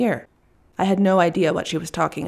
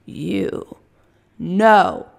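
sharp raised warning, slowing on the last words; angry shout; 3 dB louder, much slower than usual. Acted. Russian woman shouting at the delivery man to keep away. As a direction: order him back with a slow, raised threat. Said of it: "she shouts".

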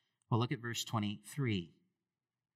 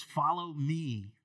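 slow, louder, authoritative call; calm command; 4 semitones higher, 4 dB louder, much slower than usual. Acted. Jesus calling disciples.

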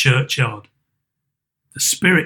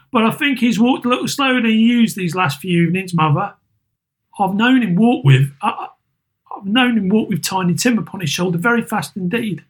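put-on higher, gentle boy's voice; a lightly voiced grieving son; Peter; 7 semitones higher than usual.

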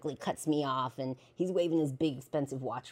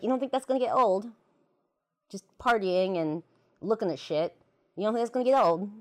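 incredulous; 6 semitones higher, 5 dB louder than usual. Retold or imitated. Retold challenge to boyfriend.

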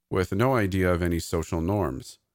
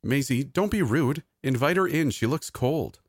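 put-on higher-pitched voice for talking to a child; playful uncle; 8 semitones higher than usual. A narrator's reading. Uncle tells Maisie to invite her friend in, playfully chiding. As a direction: play along, gently chiding.

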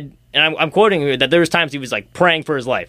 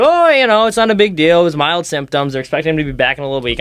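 mocking fans. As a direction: mimic carefree fans brushing it off. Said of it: "they're saying, like".

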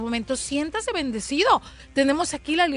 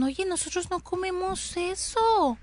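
quoted Cuban reply; 4 semitones higher, 5 dB quieter, slower than usual. Retold or imitated.

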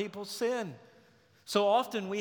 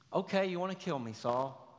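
sarcastic; 4 dB quieter than usual. Acted. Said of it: "It's sarcasm".

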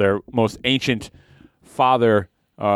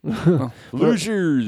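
drawn-out delight; 6 semitones higher, much slower than usual. Acted.

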